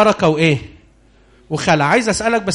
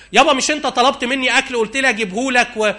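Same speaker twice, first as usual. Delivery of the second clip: son posing as Esau; 6 semitones higher than usual. Acted.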